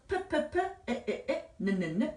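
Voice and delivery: "페페페, 에에에, 느느느" in short repeated bursts; phonics sounding-out. Shown as a demonstration. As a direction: tap out each sound of pin three times, "페", "에", "느". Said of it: "이렇게 발음이 됩니다". ("페, 에, 느"를 세 번씩 끊어서)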